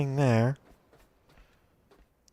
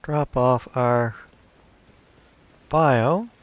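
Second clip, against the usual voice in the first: talking through hiccups; words broken by hiccups; 2 semitones lower, slower than usual. Real, not acted. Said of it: "Got the hiccups".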